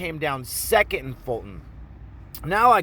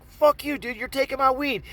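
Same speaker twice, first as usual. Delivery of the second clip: high-pitched indignant retort; acted defiance; 9 semitones higher than usual. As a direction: argue back at the mugger. Defiant reply in acted quarrel.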